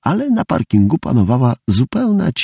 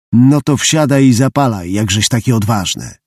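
growled. Acted. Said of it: "warknął".

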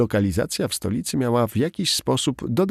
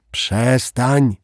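sharp, loud rebuke; scolding; 3 semitones higher, 5 dB louder than usual. A narrator's reading. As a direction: scold a colleague firmly. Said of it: "skarciła koleżankę Samara".

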